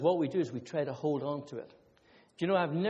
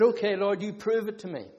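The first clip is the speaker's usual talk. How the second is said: louder, higher dare; challenging God; 4 semitones higher, 5 dB louder than usual. Retold or imitated. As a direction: throw down a bold challenge.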